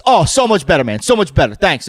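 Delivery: loud, gushing customer reply; retold over-eager thanks; effusive approval. Retold pleased customer answering waiter.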